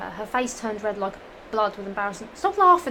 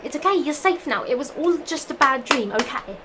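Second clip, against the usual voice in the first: a little higher, louder comfort; comforting girl voice; 4 semitones higher, 5 dB louder than usual. Acted. Rachel telling Mina it was a bad dream, lightly comforting. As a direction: reassure her gently in a raised voice.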